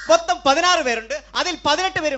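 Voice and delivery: mimicking the child. Host repeats the child's muddled head count, mimicking.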